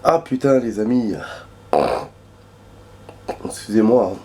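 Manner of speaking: voix enrouée par un rhume. Real, not acted. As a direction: parle avec la voix cassée, enrhumé. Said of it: "j'ai plus de voix". (voix enrouée)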